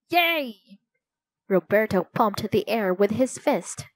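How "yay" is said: cheering. A narrator's reading. Cheering news of Brazil's win.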